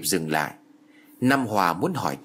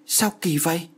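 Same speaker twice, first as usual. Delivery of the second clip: baffled; 6 semitones higher than usual. A narrator's reading. Official baffled by blank paper.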